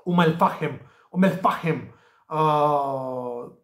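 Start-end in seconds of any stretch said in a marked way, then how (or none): 0.0-1.9 Umm el Fahem with the h sounded in "Fahem"; local pronunciation. Shown as a demonstration. Tipster repeats for viewers what locals say, "Fahem" with an audible h. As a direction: say "Fahem" in two syllables, falling at the end. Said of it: "am auzit în gură de, uh, localnic".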